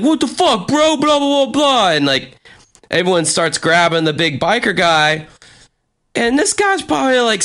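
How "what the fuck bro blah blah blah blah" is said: much higher, indignant mock protest; outraged friend. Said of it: "and he's like".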